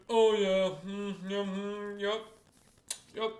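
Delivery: high, drawn-out knowing hums; mock know-it-all. Self-appointed expert inspects an injured knee, mock-knowing. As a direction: put on a lightly hammed-up know-it-all. Mimicking amateur onlookers assessing the knee.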